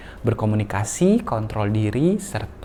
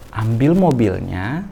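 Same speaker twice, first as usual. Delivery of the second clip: slow firm command; slower than usual. Shown as a demonstration. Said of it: "kita hitung pelan-pelan".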